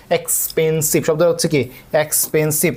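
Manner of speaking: "এক্সপেন্সিভ" broken into ex-pen-sive both times; syllable by syllable. Shown as a demonstration. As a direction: sound out each "এক্সপেন্সিভ" in separate syllables. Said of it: "যেহেতু বেশি syllable".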